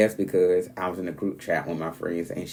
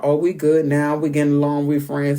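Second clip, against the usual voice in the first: raised, louder mimicry of friends reconciled; mock making up; 4 semitones higher, 6 dB louder than usual. Housemates insisting they're friends after a fight, mock making up. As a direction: play the suddenly chummy housemates, pitched up.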